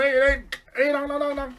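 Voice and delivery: high, loud frantic cries; hammed-up terrified hollering; acted panic. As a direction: yelp while fleeing. Hunter runs from approaching skeleton.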